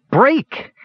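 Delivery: very high, desperate cry; high-pitched urgent yell; frantic command. A narrator's reading. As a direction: order it to give way in desperation. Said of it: "the kender commanded frantically".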